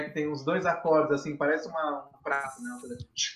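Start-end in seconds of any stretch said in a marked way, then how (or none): 3.1-3.4 cymbal imitation. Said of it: "que faz tch".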